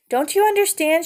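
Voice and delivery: high, exasperated shout. Acted. Father mouse shouts at his wife over their son. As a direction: yell it at your wife. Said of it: "shouted Lester".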